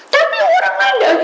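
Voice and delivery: very high, loud laughing protest; mock whiny objection. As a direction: squeal the caller's objection. Menirukan jemaat membantah. (bantahan tinggi sambil tertawa)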